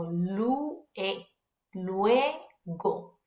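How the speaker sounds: "lue, luego" drawn out, lu-e-go, U and E both sounded; each vowel pronounced. Shown as a demonstration. Teacher shows learners to take time, each vowel pronounced. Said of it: "take the time in pronouncing it".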